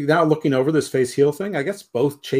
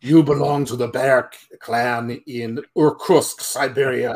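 mock mammoth voice; 5 dB louder than usual. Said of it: "they go".

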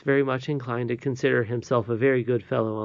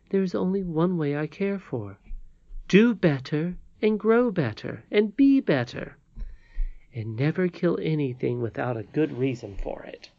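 higher, lightly voiced old lady giving counsel; earnest old lady; 5 semitones higher than usual. Old lady tells Curdie how to thank her, earnest and kindly. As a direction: urge each point upward with emphasis, then settle.

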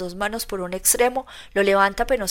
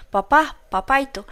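higher, louder, slow plea to his father; a frightened boy calling his dad; small boy begging his father, upset; child's anguished cry; 5 semitones higher, 4 dB louder than usual. Acted. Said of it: "exclama Rodia".

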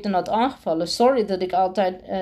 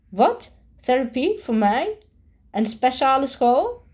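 shocked outburst; 5 semitones higher than usual. Acted. Boy bursts out at principal.

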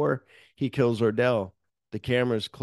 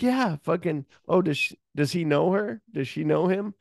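heated questioning; 8 semitones higher than usual. Retold or imitated. Ordell interrogating Lewis angrily.

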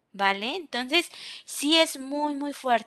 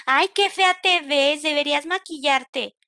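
mock rude remark; 2 semitones higher, 3 dB louder than usual. Rude comment acted out.

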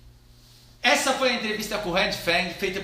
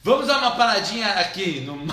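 laughter breaking through; bursting into laughter. Real, not acted. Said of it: "breaks into laughter mid-line".

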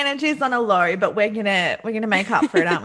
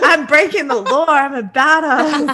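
laughing mock bravado; 3 semitones higher, 5 dB louder than usual. Acting out a rebel jaywalker.

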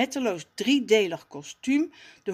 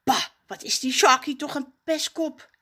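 mild grumble; 7 semitones higher, 4 dB louder than usual. Acted. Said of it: "denkt hij".

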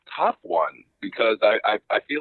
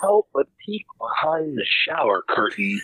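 ad read. Acted. Mock commercial break on podcast.

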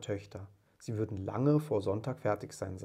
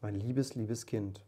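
mild weeping; slower than usual. Acted. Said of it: "weinte Bob".

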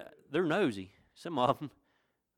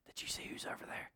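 hushed whisper of diners spotting someone famous; excited whisper; 16 dB quieter than usual. Acted. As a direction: whisper it like gossip across a restaurant. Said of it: "you hear all the whispers".

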